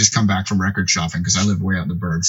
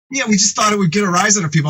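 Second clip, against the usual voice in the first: a hint of a casual friend; 10 semitones higher, faster than usual. Jay's explanation voiced.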